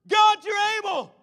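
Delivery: high, drawn-out shout of praise; loud scream. Acted. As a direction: scream it out loudly to God. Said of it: "began to scream loudly".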